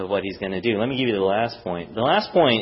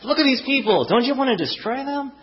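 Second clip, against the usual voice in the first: Jonah's demand; 12 semitones higher than usual. Retold or imitated. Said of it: "all the anger that he's saying".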